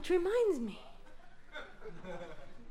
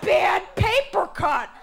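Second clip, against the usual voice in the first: slow sheepish excuse; 4 semitones higher, slower than usual. Retold or imitated. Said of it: "And I said".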